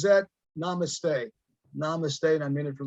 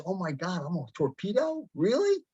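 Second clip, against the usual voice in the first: amazed realization; 2 semitones higher than usual. Retold or imitated. Coach voicing a listener realizing they are a torpedo, amazed. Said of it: "once you realize".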